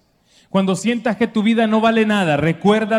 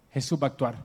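hushed, lower second take; soft confiding repeat; 7 semitones lower, 8 dB quieter, much faster than usual. Acted. Mary confiding to the servants, hushed repeat. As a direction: drop the voice and confide it. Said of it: "yo lo conozco".

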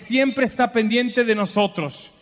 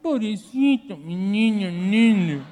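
tender mom; slower than usual. Pretend. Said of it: "quería que mi mamá me dijera".

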